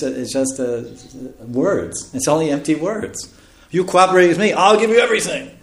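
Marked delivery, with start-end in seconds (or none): 3.7-5.5 high-pitched mimicking of a husband; mock husband's promise. Husband promises wife everything for cooperating, in a high mocking voice. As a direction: parody a big empty promise, pitched up.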